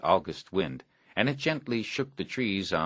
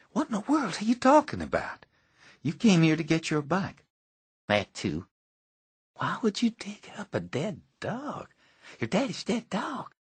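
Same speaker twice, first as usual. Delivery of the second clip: put-on higher, boyish voice in disbelief; a boy's incredulous questions, voiced higher; young boy Stanley; 12 semitones higher than usual. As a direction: play the startled kid asking what on earth.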